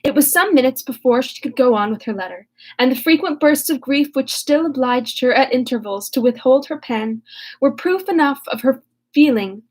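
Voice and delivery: reading the novel aloud, steady and clear; story reading. Acted. Vlogger reading Sense and Sensibility to viewers, narrating. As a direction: read the chapter like an audiobook.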